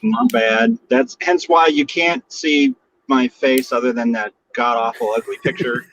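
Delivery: tinny phone line from a car; metallic voice filter. Real, not acted. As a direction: sound like you're in a tin can. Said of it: "I probably sound like I'm in a, a, a tin can".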